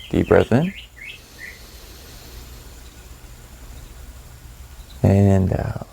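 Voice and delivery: calm, measured meditation voice with long pauses; guided meditation. Acted. Meditation guide settling listeners into their breath, calm guided meditation. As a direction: ease them through each breath and let silence sit between phrases.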